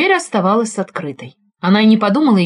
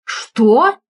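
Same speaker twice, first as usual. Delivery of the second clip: exclaiming; 3 semitones higher, 3 dB louder than usual. Acted. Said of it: "воскликнул я".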